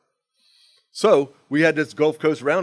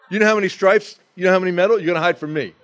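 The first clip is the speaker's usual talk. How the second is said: retold angry yell; 6 semitones higher, 6 dB louder, faster than usual. Yelling at friend through door.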